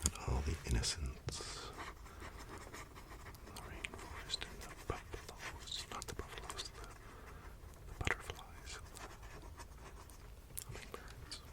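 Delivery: telling a sad comic scene to viewers, in a mock-tragic hushed voice. Mock-solemn narration dying away to near silence.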